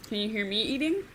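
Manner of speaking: talking through a mouthful of popcorn; chewing while talking. Real, not acted. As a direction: chew while you speak. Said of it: "I'm eating popcorn".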